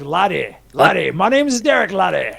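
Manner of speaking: hammed-up Scottish lilt; Scottish accent. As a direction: put on a swooping, amateur Scottish accent. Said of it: "what's a very Scottish thing to say".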